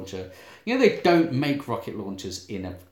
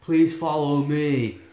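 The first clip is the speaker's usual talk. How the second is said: Looney Bin Jim; 3 semitones higher than usual. Acted. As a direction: invite them in with odd deliberateness. Co-host echoing Looney Bin Jim's voice.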